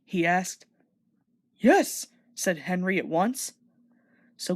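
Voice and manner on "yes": eager yes. Acted. Henry eager to help.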